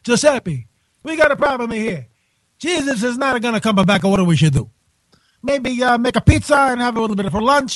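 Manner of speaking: hammed-up Italian accent as a cardinal; a light, jokey Italian accent, tossed off. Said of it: "how about an Italian accent?".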